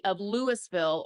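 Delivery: Louisville said as "Lewis-ville"; Louisville mit gesprochenem S. Real, not acted. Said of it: "It's not Louisville".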